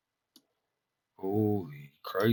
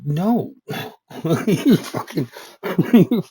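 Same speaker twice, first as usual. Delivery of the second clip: exasperated outburst; 6 semitones higher, 9 dB louder, slower than usual. Real, not acted. Rant boils over.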